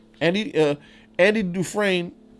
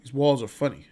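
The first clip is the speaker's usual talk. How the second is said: Red's speech; 3 semitones lower, 3 dB quieter than usual. Retold or imitated. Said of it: "he was like".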